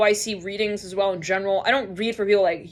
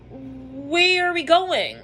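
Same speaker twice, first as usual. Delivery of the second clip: very slow, higher acted query; drawn-out question; 4 semitones higher, much slower than usual. Shopper questioning Leo in the aisle, drawn out. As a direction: stretch every word out questioningly.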